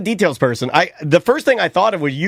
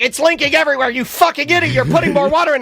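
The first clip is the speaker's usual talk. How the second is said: retold scolding; 7 semitones higher than usual.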